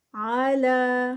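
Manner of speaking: آلا with عین sound and لا two counts; slow recitation. Shown as a demonstration. Teacher models the word, slow chant. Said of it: "عین کی sound اور لا ٹو counts".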